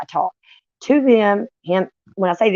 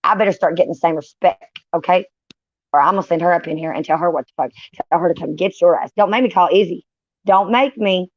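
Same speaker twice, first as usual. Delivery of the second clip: mock threat. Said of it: "I'll be like".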